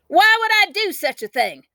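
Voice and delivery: high indignant demand. A narrator's reading. Girl demanding an answer from her brother. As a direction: demand it, outraged. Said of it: "I demanded to know".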